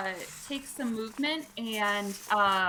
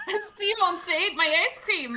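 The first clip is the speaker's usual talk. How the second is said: repeating the line through laughter; giggling while quoting; laughing; 7 semitones higher than usual. Retold or imitated. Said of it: "God, I love it".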